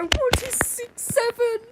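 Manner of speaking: high, slow baffled question; hammed-up confusion; mock clueless voice. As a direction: act out asking the guys. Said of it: "guys and go".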